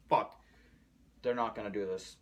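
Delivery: loud exclamation, then it settles; retold outburst. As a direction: blurt it out loudly in dismay. Reliving the Endgame death scene.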